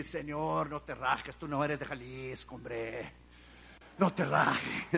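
soft, low pleading prayer; retold tearful prayer. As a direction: plead softly as if near tears. Retold crying prayer in car.

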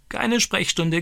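high, squawking parrot voice; crowing parrot. Retold or imitated. Stani imitates the parrot's new phrase, high squawking crow. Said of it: "kräht er".

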